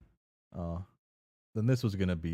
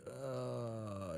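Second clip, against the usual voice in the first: reluctant groan; 5 semitones higher, 8 dB quieter than usual. Acted. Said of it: "And you're like".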